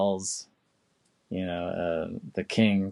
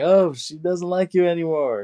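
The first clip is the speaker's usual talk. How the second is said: high, loud imitation of a brush-off; mock dismissive; 9 semitones higher, 6 dB louder than usual. Amos shutting out LaSalle, mock dismissal. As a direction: swoop up high to send the rival away.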